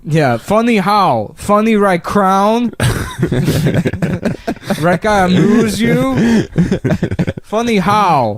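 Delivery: mock Goodfellas gangster. Gun store owner parodied as a movie gangster, slow hammed-up menace. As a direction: draw out a movie gangster's threat. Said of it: "What a great accent".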